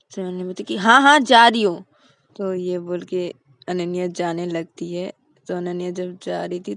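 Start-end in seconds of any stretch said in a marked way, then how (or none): 0.8-1.8 sulky reply. Acted. Ananya sulks.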